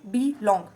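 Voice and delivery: "बी" unstressed, "लॉन्ग" stressed; slow demo of "बी लॉन्ग", weight on "लॉन्ग". Shown as a demonstration. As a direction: lean on "लॉन्ग" after a light "बी". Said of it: "फिर लॉन्ग stressed है".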